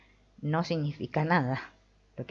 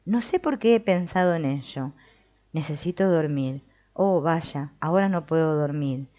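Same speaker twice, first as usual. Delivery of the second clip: a mildly fretful inner monologue, a touch louder; acting out the inner voice; 2 semitones higher, 4 dB louder than usual. Teacher voicing the mind's chatter to her audience, a bit fretful. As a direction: play the restless mind arguing with itself, lightly. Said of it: "Es como una voz que habla y se contesta a sí misma".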